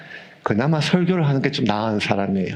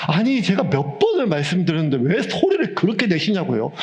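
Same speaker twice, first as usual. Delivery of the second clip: higher-pitched, exasperated quote with the stress on 번을; imitating an angry teacher; 5 semitones higher than usual. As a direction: act out her losing patience. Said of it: "성질을 내더라고요". (높은 음으로 흉내 낸 화난 선생님)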